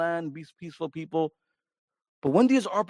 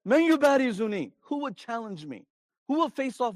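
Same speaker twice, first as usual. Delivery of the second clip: taunting challenge; 5 semitones higher than usual. Acted. Enemy champion taunts Muslims.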